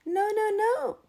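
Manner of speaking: high, loud triple no; bossy rooster cutting in; emphatic no. A narrator's reading. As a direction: stop them with a loud no. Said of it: "cried Rooster".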